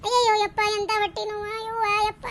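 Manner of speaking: hammed-up quiet groans; fake whimper. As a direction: fade into pretend pain. Staged fake pain moan.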